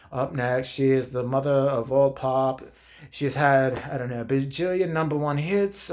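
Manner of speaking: dry deadpan host announcing, with a snide edge; matter-of-fact host. Retold or imitated. Comic mimicking the dry male host introducing a pop singer. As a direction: announce like a bored, snarky presenter. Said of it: "just so, like, matter of fact".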